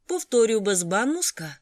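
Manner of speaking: loud call toward the kitchen. A narrator's reading. Waiter Atif calls the order to the kitchen, loudly. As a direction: shout the order back to the cooks.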